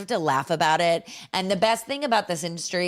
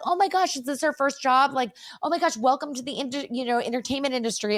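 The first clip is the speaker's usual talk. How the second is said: high, gushing imitation of welcoming crew; 6 semitones higher than usual. Crew welcoming a first-timer to the industry, gushing. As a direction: gush like an excited onlooker, pitched up.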